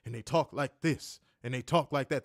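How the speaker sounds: measured imitation Samoan accent; mock Samoan speech. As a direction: lightly mimic Samoan talk, word by word. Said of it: "They all sound like Rikishi".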